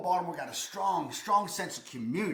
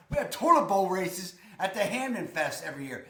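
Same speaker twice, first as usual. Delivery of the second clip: Baltimore accent. Shown as a demonstration. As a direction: lay on the local Baltimore accent. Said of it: "here, here's my accent".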